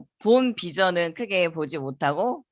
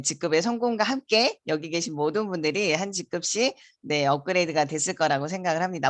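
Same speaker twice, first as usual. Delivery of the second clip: normal talking voice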